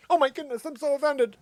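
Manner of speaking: high, loud, hammed-up outrage; mock offended diva. Host mocking offended people online in a high, loud, hammed-up voice. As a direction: play a shrill entitled snowflake making demands.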